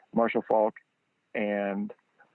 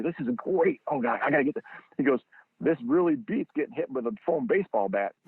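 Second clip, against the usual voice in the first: put-on kid in a candy store; 3 semitones higher than usual. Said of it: "just like a kid in a candy store".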